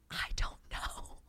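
slow breathy whisper, almost no voice; whispered I don't know. Retold or imitated. Asked how she does long distance, she whispers slowly. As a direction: hush it out like a secret confession.

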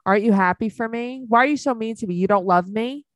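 whiny mom. Retold or imitated. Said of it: "That's exactly how Christy talks to Jade".

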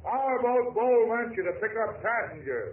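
called up high across the water; calling to a ship, pitched high. Acted. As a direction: shout up to the freighter deck. Hailing the freighter.

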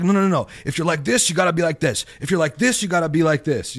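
lecturing people into boxes; mock media lecture. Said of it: "I just see it's like".

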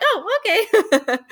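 high, slow, drawn-out "oh, okay"; deflated mock surprise. Keeper reacting when hedgehog outshines the boa, high and slow. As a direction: play it mildly let down and amused. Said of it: "I'm like".

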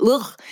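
short groan of distaste; disgusted ugh. Real, not acted. Co-host disliking how pampas sounds, disgusted ugh. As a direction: let out a grossed-out ugh.

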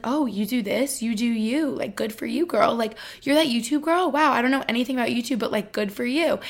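lightly acted impressed classmate; imitated breezy approval. College classmates accepting a YouTube girl, mock impressed approval. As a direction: imitate a peer cheering someone on.

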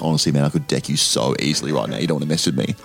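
lightly voiced pub bloke threatening; low mock threat. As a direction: growl it like a pub bloke after a fight.

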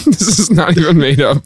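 laughing. Real, not acted. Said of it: "I can't say it without laughing".

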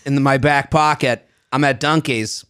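light Boston guy impression; lightly voiced Boston local telling his story; a hint of a Boston accent. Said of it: "Boston guy?".

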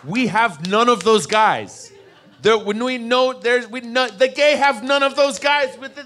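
high, loud, building comic outcry; worked-up protest, pitch climbing; exasperated rant. Acted. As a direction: escalate into hammed-up indignation. Mock exasperated rant at straight guys.

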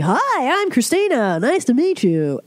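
high, chirpy overfriendly hello; ditzy American greeting. Retold or imitated. Comedian mocking Americans for Eastern Europeans: chirpy high hello. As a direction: play the grinning idiot American. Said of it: "see us as complete, um, idiot donkeys".

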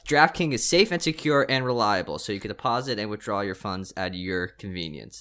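upbeat sponsor read, pushing the offer. Acted. Host reads the sportsbook ad to listeners, upbeat ad read. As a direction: sell it like a podcast ad spot.

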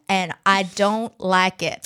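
slow, lightly Southern drawl; unhurried Southern twang; Southern accent. Real, not acted. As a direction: let a Southern accent slip out, drawn out. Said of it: "That was very Southern".

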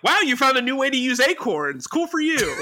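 high, bright fake praise; mock impressed. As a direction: gush sarcastically over it. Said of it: "everybody's like".

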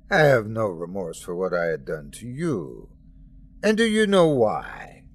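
a merciless deity stating facts without remorse; God speaking. Acted. God addresses Jesus, cold.

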